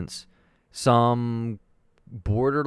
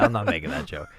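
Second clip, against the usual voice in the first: low mock voice; 8 semitones lower, 5 dB quieter, much faster than usual. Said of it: "repeated in low voice".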